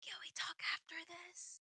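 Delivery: loud stage whisper. Stepping out from behind cover to ask another character, loud stage whisper. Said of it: "just like whisper, but not really whispering".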